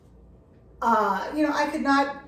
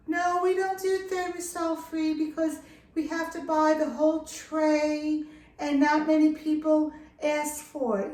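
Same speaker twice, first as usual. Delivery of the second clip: higher, level-toned voice for a quoted vet; imitated vet's refusal; 4 semitones higher than usual. Vet turning down a caller's request, imitated refusal.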